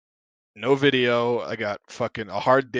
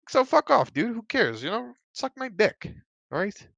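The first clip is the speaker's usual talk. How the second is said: heated yell; 11 semitones higher than usual. Real, not acted. Heated rant at critics.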